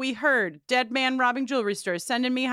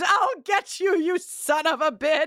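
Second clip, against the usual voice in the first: acted, held-back mild yell, pitched up; 5 semitones higher than usual. Retelling a scene where a character screams at the sky: imitating a scream. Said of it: "turning around to see who just screamed".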